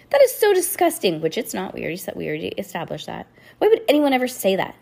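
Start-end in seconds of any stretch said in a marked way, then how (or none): 0.1-1.2 loud, high-pitched disgust; disgusted cry. A narrator's reading. Girl crying out about lice, loudly disgusted. 3.6-4.7 hurt protest, higher and quicker; fast, raised-voice upset girl; upset, near tears. A narrator's reading. Girl hearing a rumor about herself, upset protest. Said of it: "Lucy sniffed and fought back tears".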